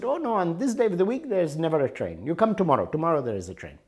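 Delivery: lightly voiced Indian clerk, high and insistent on the first lines; sing-song polite clerk brushing him off; railway clerk. Clerk explains no train.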